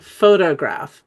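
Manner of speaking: "photograph" slow, the second o reduced to uh; schwa in second syllable. Shown as a demonstration. Teacher showing where the schwa is, slow reduced second syllable. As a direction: say "photograph" slowly as PHO-tuh-graph. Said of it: "that O is schwa a little bit".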